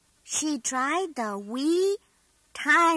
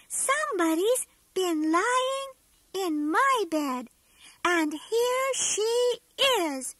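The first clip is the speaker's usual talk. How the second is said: a hint of a small, higher baby bear; wee tiny voice; 4 semitones higher than usual. Baby Bear finding Goldilocks in his bed, tiny higher voice. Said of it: "said Baby Bear in his wee, tiny voice".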